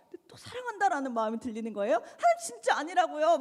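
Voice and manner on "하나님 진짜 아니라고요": high, half-laughing irritated insistence; annoyed protest. Retold or imitated. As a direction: push back at God, fed up but amused. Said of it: "막 짜증을 내고 있는데". (웃음 섞인 짜증)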